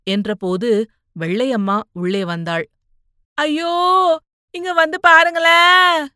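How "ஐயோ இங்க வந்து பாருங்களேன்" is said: higher, louder cry for help; alarmed shout. Acted. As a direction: call the household in alarm. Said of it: "சத்தம் போடப்போன". (பதறி எல்லோரையும் கூப்பிடும் அம்மா)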